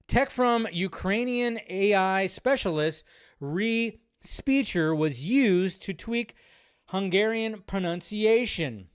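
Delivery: slow, deliberate reading of a news headline; measured news-read delivery. Acted. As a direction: read the article out, carefully. Reads headline aloud.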